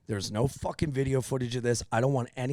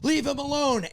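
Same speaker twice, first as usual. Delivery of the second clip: high-pitched retold protest; much higher voice, mock pleading; imitated bystander; 12 semitones higher than usual. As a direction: imitate an onlooker butting in to protect someone. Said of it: "another guy that came up".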